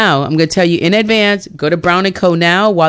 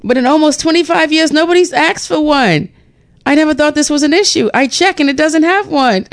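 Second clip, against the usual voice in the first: quoting bookseller; 10 semitones higher than usual. Retold or imitated. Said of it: "He said".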